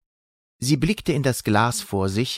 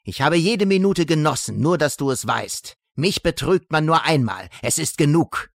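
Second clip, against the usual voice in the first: höher, hämisch und lauter; zornig triumphierend; 4 semitones higher than usual. Acted. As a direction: lass die Wut triumphieren. Zornige Abrechnung einer Figur. (zorniger Triumph)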